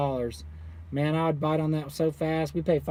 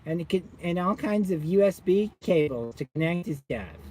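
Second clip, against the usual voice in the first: lightly voiced condescending support guy; a hint of a smug tech rep; mock tech support guy; 3 semitones higher than usual. Imitating the SMA guy on the phone, lightly condescending. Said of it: "This is how his voice sounded".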